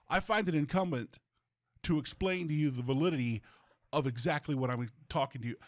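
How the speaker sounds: lightly pompous, fast mock phone speech; imitating wordy phone talker. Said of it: "he's talking like this in the phone".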